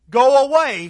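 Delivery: loud high demon shout; demon crying out. Acted. Unclean spirit cries out at Jesus in synagogue, loud shout. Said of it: "cried out at the top of his voice".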